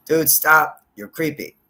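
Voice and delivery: half-shouted high dude stop; loud mock yell. He yells at the dog under the bed, loud and high. Voicing him yelling at dog.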